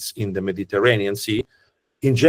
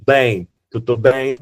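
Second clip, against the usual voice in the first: slow Genoese "ben" with a Portuguese ring; Portuguese-sounding Genoese Italian; Genoese accent; 3 dB louder than usual. Shown as a demonstration. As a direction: stretch "ben" like a Genoese local. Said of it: "like the Portuguese".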